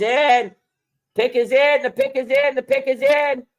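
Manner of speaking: rising, hyped call that the pick is in; excited. Real, not acted. Pick announced during live draft.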